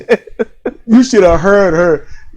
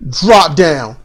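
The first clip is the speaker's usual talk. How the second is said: lower-pitched mock command; ringside manager's command; 4 semitones lower than usual. Imitating a fan playing manager on the outside, low command. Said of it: "She said that she's a manager on the outside".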